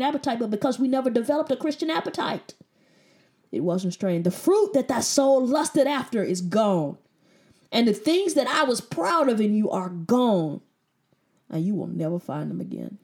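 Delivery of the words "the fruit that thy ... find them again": solemn Bible reading; scripture reading. Acted. Reads scripture aloud.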